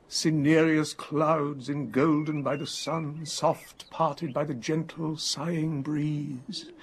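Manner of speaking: slow, measured verse reading; poetic recitation. Acted. Savouring a poetic description of the sky, slow recitation. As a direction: draw the lines out like poetry.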